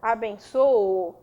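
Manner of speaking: "eu abençoo" drawn out slowly; slow conjugation. Shown as a demonstration. Teacher slowly conjugates "abençoo" for the class. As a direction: spell out "eu abençoo" at half speed. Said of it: "Abençoar".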